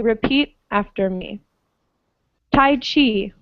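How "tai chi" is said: "Tai Chi" as tai-CHI; second-syllable stress. Shown as a demonstration. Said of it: "the stress on the second syllable".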